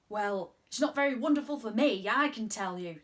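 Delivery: crossly. Acted. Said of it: "said Mister Pepperpot crossly".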